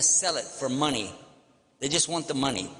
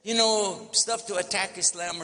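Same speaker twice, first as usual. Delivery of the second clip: mock high salesman voice; 7 semitones higher than usual. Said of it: "They said".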